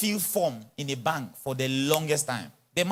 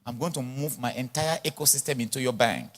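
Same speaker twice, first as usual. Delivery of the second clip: low, soft, self-assured pitch; quiet, confident big-shot talk; 7 semitones lower, 8 dB quieter than usual. Acted. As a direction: list your assets coolly, voice dropped. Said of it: "I have big talk".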